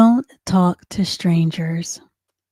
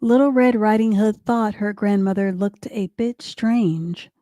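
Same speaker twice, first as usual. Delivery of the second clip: clear, animated storybook reading; lively children's story narrator; story narration; 2 semitones higher than usual. A narrator's reading. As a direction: read it aloud to little kids.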